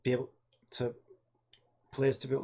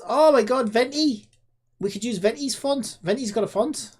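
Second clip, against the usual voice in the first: delighted excitement; 8 semitones higher, 6 dB louder than usual. Real, not acted. Delighted discovery of Venti.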